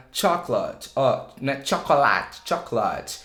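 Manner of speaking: chocolate with a reduced middle vowel; schwa demo. Shown as a demonstration. Teacher modelling chocolate with the schwa. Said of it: "É um som de a".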